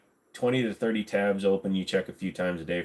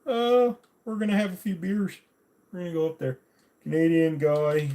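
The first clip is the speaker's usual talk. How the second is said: Dana Carvey impression; 9 semitones higher than usual. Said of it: "Look at Dana Carvey".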